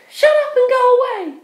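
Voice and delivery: high, loud and cutting; angry dismissal. Acted. Penelope dismisses begging ex, high and cutting. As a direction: send him away in contempt.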